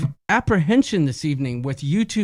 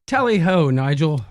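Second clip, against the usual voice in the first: put-on British accent; 4 dB louder than usual. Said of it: "my British accent".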